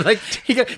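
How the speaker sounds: tickling sound. Retold or imitated. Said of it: "he tickled the holy water".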